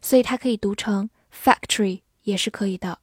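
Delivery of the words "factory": "factory" in two syllables, fac-tree, with no vowel for the O; dropped O. Shown as a demonstration. Teacher shows the alternative reading of factory, dropped O. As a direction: run T and R together as "ch" in "factory". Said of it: "字母O的发音可以省略".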